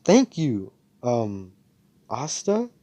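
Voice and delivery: lightly acted shy crush; halting, flustered reply with a rising end; bashful. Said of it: "and she blushes".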